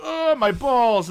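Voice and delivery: put-on high, loud, drawn-out little-kid wail; parroting mock wail. Dad imitating parrot three-year-old, high mock wail. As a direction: copy big brother's fake agony. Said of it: "will also bend over and go".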